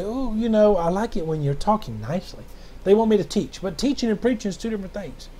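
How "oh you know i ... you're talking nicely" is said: lightly mocked polite listener, softening toward the end; imitating mild objectors. People telling the preacher they prefer teaching, mildly imitated. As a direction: gently mimic people who prefer nice talk. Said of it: "there's lots of people tell me".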